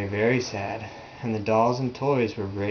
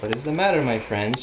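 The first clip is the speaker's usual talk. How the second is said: kind question; faster than usual. Acted. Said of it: "she asked kindly".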